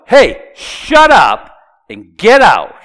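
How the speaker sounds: loud, high, drawn-out command; a little loud. Shown as a demonstration. Preacher voicing Jesus ordering a demon out, loudly. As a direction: bellow the order slowly. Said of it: "I'm saying it a little loud".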